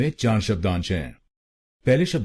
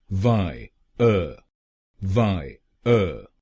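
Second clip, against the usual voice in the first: वाय अ said very slowly with a clear break, "vaa ... uh"; slow syllable split; much slower than usual. Shown as a demonstration. Teacher breaking the syllables apart, very slow. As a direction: stretch it out, "vaa", pause, "uh". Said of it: "इन दोनों शब्दांशों की pronunciation है वायर".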